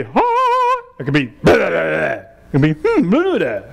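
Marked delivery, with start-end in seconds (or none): 0.0-0.8 a high, drawn-out ha; demo sound. Shown as a demonstration. Teacher showing students a sound, high and slow ha. 2.7-3.1 slow drawn-out hmm; demo hum. Shown as a demonstration. Teacher modelling a sound, a slow hmm.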